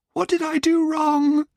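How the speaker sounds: high, trembling plea; shaky voice. A narrator's reading. Alison begs the examiner, voice shaking. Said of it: "she asked in a shaky voice".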